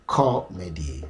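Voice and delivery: "Comedy" starting up on CO, the rest going down; first-syllable stress. Shown as a demonstration. Teacher demonstrating the stress, falling after the first syllable. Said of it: "the rest goes down".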